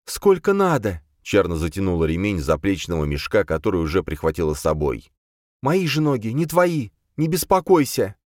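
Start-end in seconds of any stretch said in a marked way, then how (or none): 0.1-1.0 put-on high, steady resolute girl; calm, unshakable decision; Charna, firm. Charna fed up with the quarrel, firm and high. 5.6-8.2 put-on high, steady resolute girl; calm, unshakable decision; Charna, firm. Charna fed up with the quarrel, firm and high.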